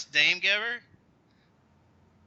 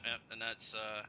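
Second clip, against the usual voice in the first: ordinary delivery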